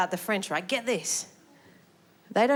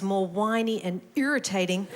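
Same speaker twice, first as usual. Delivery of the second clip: mock whiny New Zealand accent. Shown as a demonstration. Comic showing how New Zealanders sound, whiny New Zealand accent. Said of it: "the New Zealand accent is".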